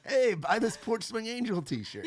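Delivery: high, loud, drawn-out sales holler; merch hawker call. Retold or imitated. Band merch seller pitching girls in the South, hollered high and slow. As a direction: re-enact hawking merch to a crowd, loud and high.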